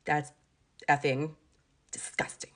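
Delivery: mock the neighbor's muttered disgust; imitating the neighbor. Mimicking the neighbor woman sneering at the dog mess, hushed. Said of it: "Like that, like that".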